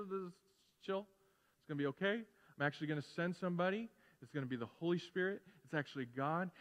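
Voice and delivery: calm reassurance. Acted. Jesus telling freaked-out disciples he will send somebody, calm and reassuring.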